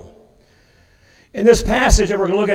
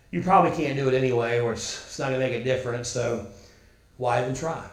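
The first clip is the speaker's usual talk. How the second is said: lower, softer, fast discouraging murmur; fearful inner voice; 7 semitones lower, 7 dB quieter, faster than usual. Retold or imitated. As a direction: sound like doubt creeping in. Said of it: "the fear side that creeps in and tells us".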